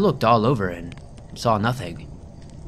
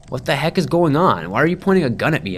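higher, faster, alarmed protest; yelled; 4 semitones higher, 3 dB louder than usual. Acted. To the deputy pointing a gun, alarmed fast yell. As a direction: fire it back at the gunpoint in alarm. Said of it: "I yelled".

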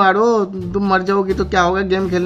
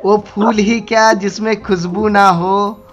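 slow, measured couplet recital; shayari recitation; slower than usual. Shown as a demonstration. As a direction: lay out each line like a poet at a mushaira. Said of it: "एक साड़ी बनाया है, सुनोगी क्या".

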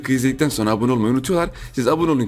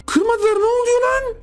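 high squeal of surprise. Real, not acted.

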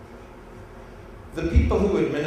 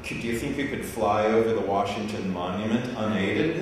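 laughing disbelief; 5 semitones lower than usual. Retold or imitated. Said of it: "And I said".

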